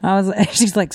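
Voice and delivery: ordinary talk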